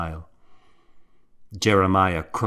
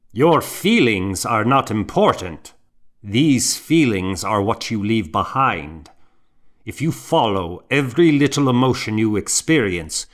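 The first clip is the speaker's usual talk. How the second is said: a touch of a lecturing superior, a little louder; scolding; 2 semitones higher, 5 dB louder than usual. Acted. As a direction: rebuke the newcomer, quick then slowing on the end. Monk rebukes newcomer.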